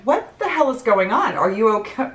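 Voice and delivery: high-pitched retold alarm; taken aback. Retelling her shock at greeting a tearful relative, taken aback. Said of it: "I was so taken aback".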